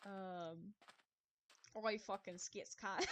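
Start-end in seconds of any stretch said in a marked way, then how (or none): 1.8-3.1 put-on Australian accent. Streamer teasing Australian friends, hammed-up Australian accent. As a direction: blurt it in a mock Australian accent. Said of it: "Australian accents are the best".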